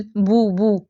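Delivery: "بو، بو" as boo, boo, like bulbul; rounded oo sound. Shown as a demonstration. Teacher drawing the sound from Urdu bulbul, rounded oo. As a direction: round each "بو" to a clear oo. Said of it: "بو پیچھے sound آنی چاہیے".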